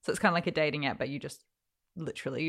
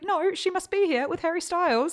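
high, rushed and louder frantic explaining; 13 semitones higher, 4 dB louder than usual. Retold or imitated. To her boyfriend about Olivia Wilde, frantically excited. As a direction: sound a bit crazy with excitement. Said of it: "You sound crazy".

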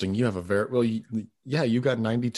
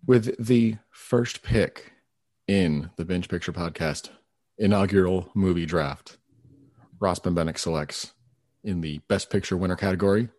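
draft announcer; 3 semitones lower than usual. Pretend.

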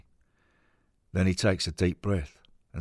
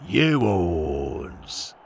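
shout. Acted. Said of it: "Morris shouts".

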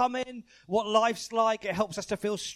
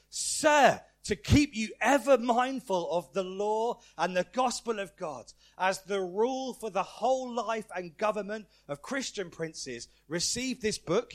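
measured, solemn reading of a prayer; stately liturgical delivery; formal prayer reading. Acted. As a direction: read it out like a ceremonial charge, slowing towards the end. Reads a coronation prayer aloud.

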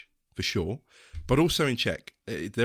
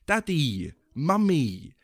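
put-on childlike; 4 semitones higher, much slower than usual. Shown as a demonstration. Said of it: "It's very much a childlike".

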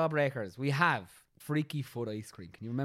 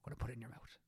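pretend sales pitch; 3 semitones lower, 6 dB quieter than usual. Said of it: "I'm marketing".

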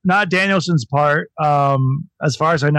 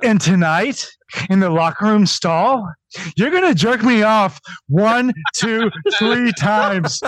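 mock promo voice; 4 semitones higher than usual.

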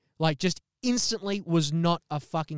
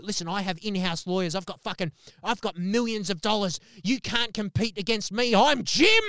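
full rage; 4 semitones higher than usual. Retold or imitated. Enraged Jim boasting of his millions, ending in a yell. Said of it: "he just goes full on fucking rage".

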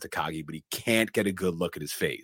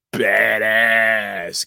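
excited shout; 3 semitones higher, 9 dB louder than usual. Real, not acted. Exclaiming at the villain.

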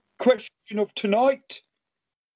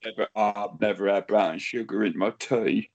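gruff puppet voice; 13 semitones lower, 3 dB quieter than usual. Pretend. Clayton voice, much lower.

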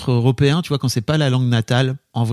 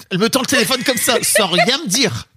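high-pitched, laughing disbelief; amused retelling; 10 semitones higher than usual. Real, not acted. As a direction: tell it breaking into laughter. Raconte en riant la panique. (en riant, voix aiguë)

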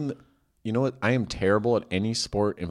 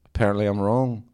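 mock-solemn Liverpudlian apology; badly faked Scouse, playing disgraced; bad Scouse accent. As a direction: confess in a hammed-up Liverpool accent. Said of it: "Apologize to Katie Wright in your bad".

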